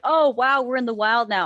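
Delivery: lightly voiced wide-eyed ride narrator; Mater narrating. Ride narrator reacting to the jungle, lightly voiced Mater. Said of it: "the narrator just goes like".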